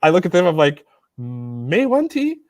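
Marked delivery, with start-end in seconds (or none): 1.2-2.4 very slow, basic Chinese in an exaggerated American accent; super foreign accent. Reassuring the officers in broken Chinese, a heavy foreign accent. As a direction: stretch out "Mei Wan Ti" like a clueless foreigner. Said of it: "really basic Chinese with a super accent".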